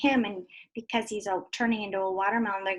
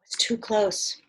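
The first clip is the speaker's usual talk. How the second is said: whisper; much slower than usual. Acted.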